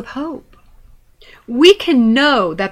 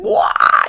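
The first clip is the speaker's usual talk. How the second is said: retold toddler wail; 10 semitones higher, 4 dB louder than usual. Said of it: "he began to scream".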